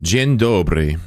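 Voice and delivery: Dzień dobry read out carefully in Polish; Polish greeting attempt. Shown as a demonstration. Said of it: "I don't know how to say it".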